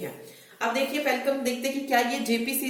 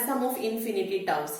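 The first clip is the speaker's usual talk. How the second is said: slow formula naming; much slower than usual. Shown as a demonstration. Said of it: "एक और formula है जो इसमें आपको याद करना है".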